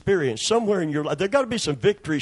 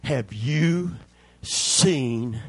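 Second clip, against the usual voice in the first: warning; 6 semitones lower than usual. Retold or imitated. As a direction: caution David in a hushed, low voice. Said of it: "they told him".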